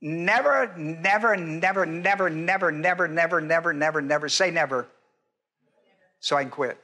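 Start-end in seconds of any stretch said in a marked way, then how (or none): 0.0-4.9 running repetition. Shown as a demonstration. Chants out meaning of emphatic negative.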